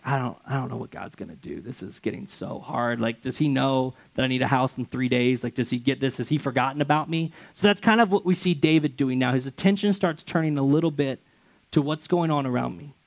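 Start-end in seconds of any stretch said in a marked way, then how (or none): 0.0-7.3 quiet, deflated and worried; a touch of despair; downcast. Retold or imitated. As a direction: let the hope drain out, softly. Downcast prayer retold.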